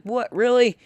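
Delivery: "What, really?" jumps way up in pitch; a disbelieving yelp at the machine; disbelief. Retold or imitated. Dollar rejected by the machine.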